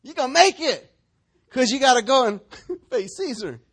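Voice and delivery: encouraging angel. Acted. Angel tells Paul in the storm to take heart, loud and high. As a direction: cheer him on like a heavenly messenger. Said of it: "stood before him and said".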